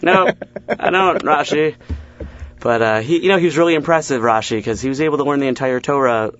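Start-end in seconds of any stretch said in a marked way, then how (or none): 0.0-1.7 drawn-out, higher exasperated reply. Retold or imitated. Answering Rashi's useless ancient French note, exasperated. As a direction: drag it out, fed up with Rashi. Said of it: "You're like".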